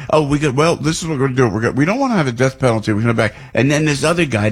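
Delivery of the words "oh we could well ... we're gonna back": mocking the killer. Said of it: "this guy's going".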